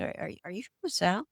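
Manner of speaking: put-on light Southern accent on a question. Asking if the actor is from the South, light Southern accent. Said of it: "I fall into the Southern accent".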